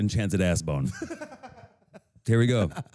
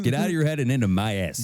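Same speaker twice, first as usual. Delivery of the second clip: playful Chicago twang; Chicago accent; 3 semitones higher than usual. Acted. Co-host twisting the slogan for a laugh, Chicago accent. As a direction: let the Chicago accent slip out. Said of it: "There came your Chicago accent".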